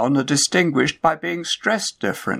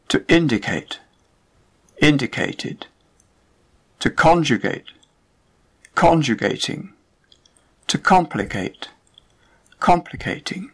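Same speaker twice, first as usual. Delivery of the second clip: INdicate, CONjugate, COMplicate, stress on the first syllable; 3 semitones higher than usual. Shown as a demonstration. Teacher drilling -ate verbs for learners, first syllable stressed. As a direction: hit the front, keep -ate light. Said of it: "stressed on the first syllable".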